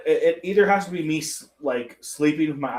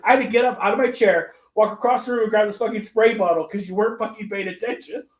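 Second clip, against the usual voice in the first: higher-pitched mock scolding; retold exasperation; 6 semitones higher than usual. Therapist scolding an inattentive patient, mock exasperation. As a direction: tell them off, exasperated, as a retold quote.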